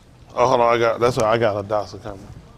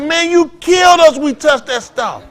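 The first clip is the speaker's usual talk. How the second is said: mock panic; 10 semitones higher than usual. Retelling panicked reply to daddy.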